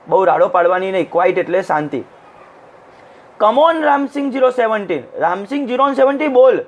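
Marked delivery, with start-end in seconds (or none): 3.4-6.6 higher-pitched, lightly acted judge's prompt; lightly voiced impatient call to speak; urging judge. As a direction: press him to answer. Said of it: "the judge said".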